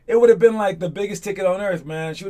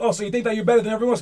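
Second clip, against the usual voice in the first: sneering question; 5 semitones higher, much faster than usual. Retold or imitated. Voicing doubters, sneering.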